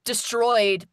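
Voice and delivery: normal talking voice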